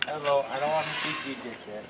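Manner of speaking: quiet coaxing to an alpaca; soft animal talk. Real, not acted. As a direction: speak gently to the animal. Talking softly to an alpaca.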